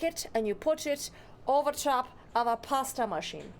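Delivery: put-on loose, accidental Italian accent; horrible Italian accent. Streamer comparing streams to a pasta machine, bad Italian accent. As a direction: slip into a badly done Italian accent. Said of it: "it's a horrible Italian, I'm not even trying".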